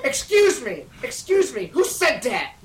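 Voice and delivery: loud, high, laughing mock yell; hammed-up janitor yell. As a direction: yell it out through giggles. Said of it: "yelled Mister Norris".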